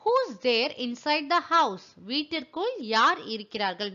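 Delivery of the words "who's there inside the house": each word spaced out slowly for learners; slow, careful model question; slow dictation. Shown as a demonstration. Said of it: "எப்படி சொல்லலாம்".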